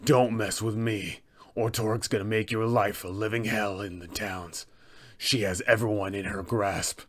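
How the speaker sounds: low, quiet menace; soft-spoken threat; Sefik, threatening. Acted. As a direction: warn them off without raising your voice. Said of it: "he will go ahead and threaten them with".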